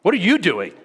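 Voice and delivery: you punched high, falling after it; stress on you. Shown as a demonstration. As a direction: hit the word you in the question. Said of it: "inflect different parts of that sentence".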